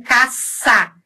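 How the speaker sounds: "caça" with a long plain s; seseo with S. Shown as a demonstration. Teacher showing Mexico's pronunciation, plain s. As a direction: hiss the middle of "caça" as s. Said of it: "É o ceceio com S".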